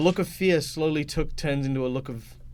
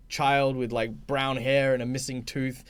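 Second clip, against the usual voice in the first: ordinary talk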